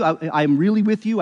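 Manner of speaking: really given weight as the Hebrew's emphasis; emphatic really. Shown as a demonstration. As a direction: stress on really, said firmly. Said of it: "It's emphatic in the Hebrew".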